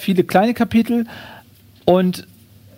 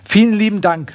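lightly voiced courteous thanks; a hint of over-politeness; polite kangaroo; 3 semitones higher than usual. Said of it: "sagt das Känguru".

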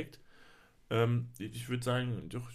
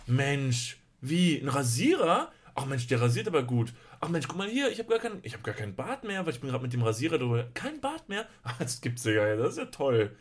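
shopping TV host; 2 semitones higher, 4 dB louder than usual. Pretend. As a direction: sell it like an excited TV host. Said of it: "dass es ungefähr so aussieht". (begeisterter Teleshopping-Moderator)

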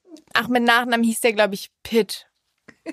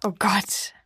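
geflüstert; 3 semitones lower, 5 dB quieter than usual. Real, not acted. Genervt vom Husten der Mutter.

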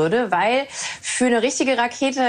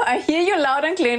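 imitating the radio instruction; 6 semitones higher than usual. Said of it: "Sag ganz genau".

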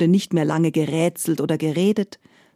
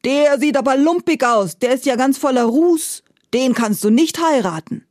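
put-on higher, louder aghast old ruler; shocked tsar; 6 semitones higher, 4 dB louder than usual. Tsar to his daughter, appalled and protesting. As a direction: object in horror at the sooty groom. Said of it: "blieb er erschrocken stehen".

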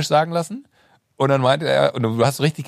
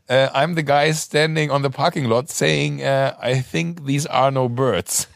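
sheepish slow quote; 2 semitones higher, slower than usual. Retold or imitated. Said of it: "Und ich so".

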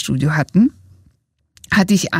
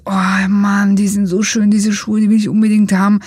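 eager shoe craving. Retold or imitated. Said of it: "dann sagst du".

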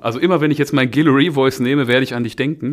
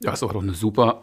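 versagende, heisere Stimme; 2 semitones lower, 4 dB quieter than usual. Real, not acted. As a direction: spricht mit angeschlagener, heiserer Stimme. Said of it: "meine Stimme versagt gerade". (heiser, Stimme bricht weg)

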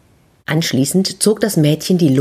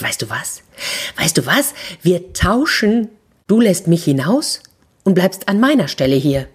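eager, hushed then rising plea; an excited horse with a plan, half whispered; excited mare; 2 semitones higher than usual. Acted. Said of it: "ganz aufgeregt". (aufgeregte Stute, halb geflüstert)

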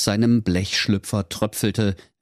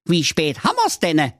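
higher, dialect-tinged idle question; casual giant; 9 semitones higher than usual. A narrator's reading. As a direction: ask the time lazily, unimpressed. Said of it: "sprach der ... weiße Riese".

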